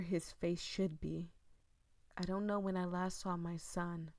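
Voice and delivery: dramatic read-aloud of a creepy tale; eerie storytelling voice; story narration. Acted. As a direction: read it like a ghost story to the viewers.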